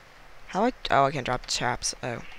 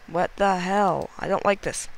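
panicking; 4 semitones higher than usual. Real, not acted. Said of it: "I very panicking".

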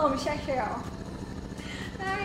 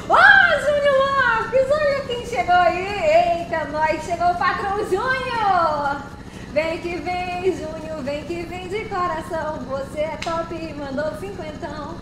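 hype shout-out; 4 dB louder, slower than usual. Acted. Streamer hyping viewer Júnior for donating, excited. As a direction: greet the donor like a party host.

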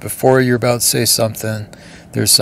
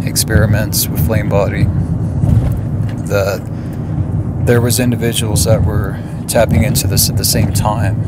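talking while driving over bumps; on a bumpy road. Real, not acted. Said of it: "sorry for the bumps here".

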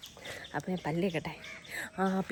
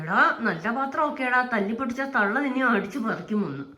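scolding; 3 semitones higher, 4 dB louder than usual. Real, not acted. Scolding pet near the dishes.

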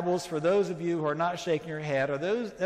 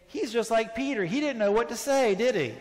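raised, louder teasing voice; mock listener gripe; 4 semitones higher, 4 dB louder than usual. Preacher imitating a departing listener, a louder teasing scoff. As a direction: play a departing congregant scoffing. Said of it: "you'd leave and say".

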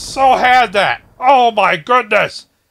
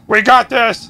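loud determined pep talk; fired-up shout to self; 3 semitones higher, 4 dB louder than usual. Real, not acted.

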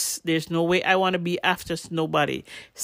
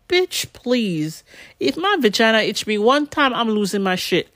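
sassy retort; 4 semitones higher than usual. Retold or imitated. Scolding the nurse in retelling.

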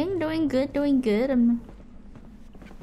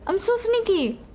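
gloating singsong; 6 semitones higher, 4 dB quieter than usual. Pretend. Singsong gloating while sneaking.

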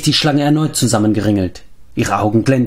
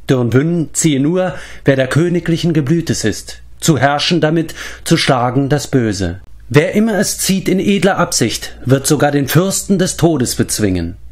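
reading an inscription; 3 semitones higher than usual. A narrator's reading. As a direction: intone the old words like a prophecy. The speaker reads the ancient inscription.

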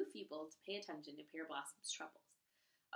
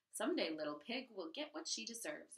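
declared. Acted. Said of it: "Amoni declared".

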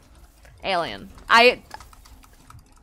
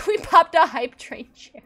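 laughing, back up to full voice; laughing through it; 4 semitones higher than usual. Real, not acted. Streamer repeating the milestone to chat, laughing. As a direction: let the laugh break into the words.

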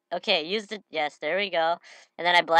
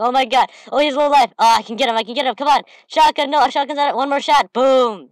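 much higher and louder, a frantic game shout; excited yelling; 7 semitones higher, 9 dB louder than usual. Real, not acted. Gamer yelling at the screen mid-fight, excited. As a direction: yell as the kill closes in.

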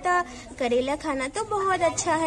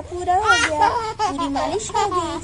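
laughing; 3 dB louder than usual. Acted. Finishing baby's massage, laughing.

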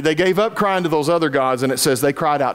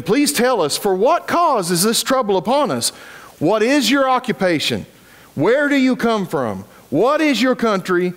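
higher, pressing questions from frightened sailors; anxious sailors; 7 semitones higher than usual. Acted. Sailors questioning Jonah during the storm, anxious and pressing. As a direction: press him for answers, worried.

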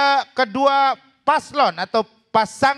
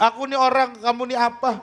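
motto demo. Shown as a demonstration. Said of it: "Main cuaks juga nggak begitu dah".

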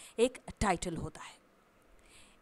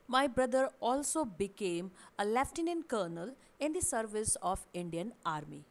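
slow example read; much slower than usual. Shown as a demonstration. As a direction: read out slowly and clearly as an example sentence. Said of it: "sentence कुछ इस तरह से है". (धीरे और साफ़ उदाहरण वाक्य)

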